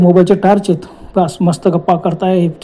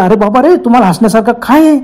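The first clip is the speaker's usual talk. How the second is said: shouting; 3 semitones higher, 3 dB louder than usual. Retold or imitated. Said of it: "Rahul एकदम ओरडला".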